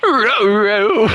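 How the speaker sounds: lightly voiced cartoon dog, strained; a hint of a straining cartoon dog; Scooby-Doo. Gamer mid-match voicing a cartoon dog, light strain. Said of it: "why do I make Scooby-Doo sound like he's straining".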